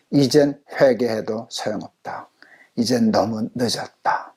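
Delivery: hushed, tempting whisper; satan's whisper. Retold or imitated. Pastor voicing Satan's whisper to the congregation, hushed and tempting. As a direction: breathe the lie like a tempter. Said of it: "이건 사탄의 유혹입니다".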